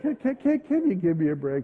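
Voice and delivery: stuttering, hesitant begging for a break; stammering plea. Retold or imitated. Pastor retelling how he begged the cop, stammering and sheepish. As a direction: trip over the first word, then ask timidly. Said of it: "but I said".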